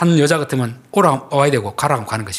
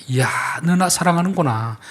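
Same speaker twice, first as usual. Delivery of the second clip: higher, mildly delighted exclamation; pleased God; 5 semitones higher than usual. Acted. Preacher voices God to those who treat the weak well, mildly pleased. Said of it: "하나님 마음이 너무 기쁜 것입니다".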